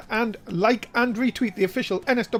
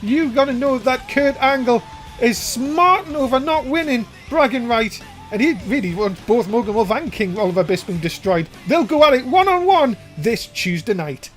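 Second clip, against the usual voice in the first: announcer hype; 2 semitones higher, 4 dB louder than usual. Real, not acted. Announcing main event news.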